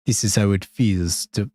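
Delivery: attempted Russian accent. Shown as a demonstration. Streamer trying the requested Russian accent for chat, shaky attempt at Russian. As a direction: have a go at a bad Russian accent. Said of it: "do it with, like, a Russian, a Russian accent".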